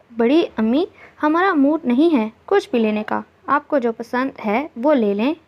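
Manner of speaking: a touch of weary disinterest; uninterested, slowing at the end; mildly fed up, not in the mood; listless. Acted. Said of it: "वो बेजारी से बोली".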